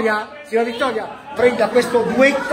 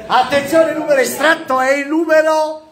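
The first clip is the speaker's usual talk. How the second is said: bingo caller. Real, not acted. Calls tombola numbers.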